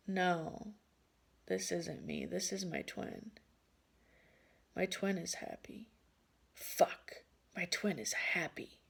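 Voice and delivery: soft, deflated realization with long pauses; acted misery. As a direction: let the hope drain out quietly. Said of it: "I am fucking miserable".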